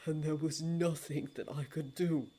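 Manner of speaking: hushed, broken tenderness; anguished relief. Acted. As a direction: hold back tears as you say it. Dream's low voice.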